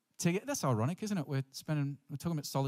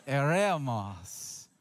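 Eremos stretched out very slowly, slightly louder; a bit louder; 2 semitones lower, much slower than usual. Shown as a demonstration. Preacher having the congregation repeat Greek, slow and louder. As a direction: draw out Eremos for everyone to repeat. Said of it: "Say it a little bit louder".

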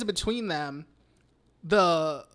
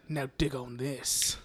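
acted quote; 6 semitones lower, 8 dB quieter than usual. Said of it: "she's like".

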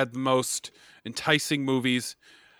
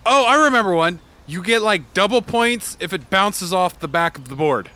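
excited; 7 semitones higher, 6 dB louder than usual. Acted. Eager player.

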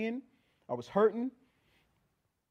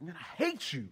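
under his breath; 6 dB quieter than usual. Retold or imitated. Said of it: "I whispered under, under my breath".

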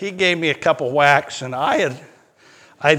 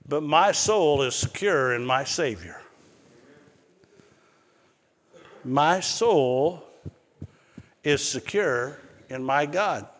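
softer, quietly certain; calm assurance; 2 semitones lower, 5 dB quieter than usual. Acted. Men telling the king their soul is secure, calm assurance. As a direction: say it unhurried, with long pauses.

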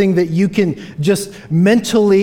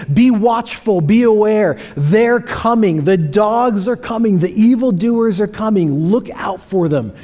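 urgent warning; 5 semitones higher than usual. Retold or imitated. Paraphrasing Paul's urgent warning.

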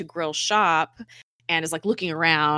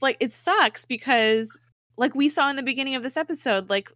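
normal talking voice

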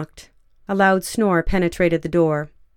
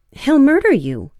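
urgent, higher and louder warning; 7 semitones higher, 6 dB louder than usual. A narrator's reading. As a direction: warn her in alarm. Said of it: "Coletta said urgently".

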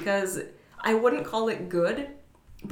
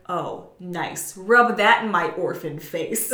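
laughing; 6 dB louder, slower than usual. Retold or imitated. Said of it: "Robotnik's like".

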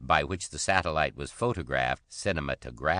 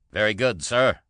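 higher, louder called reply; called back; 6 semitones higher, 7 dB louder than usual. A narrator's reading. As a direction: shout the acknowledgement back. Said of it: "the Cockney called back".

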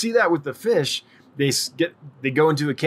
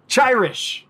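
Chirish said higher, CHI like chai; trying the name again; 9 semitones higher, 3 dB louder than usual. Shown as a demonstration. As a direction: test Chirish on a higher pitch.

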